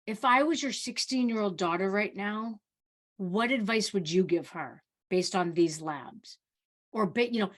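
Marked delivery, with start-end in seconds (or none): 0.1-6.4 changed softer tone. Retold or imitated. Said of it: "I'll change my tone".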